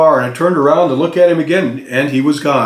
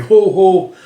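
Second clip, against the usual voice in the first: a light, higher, louder mock jolly ho ho; half-hearted try at Santa's belly laugh; mild Santa ho ho; 6 semitones higher, 4 dB louder than usual. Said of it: "like a Santa".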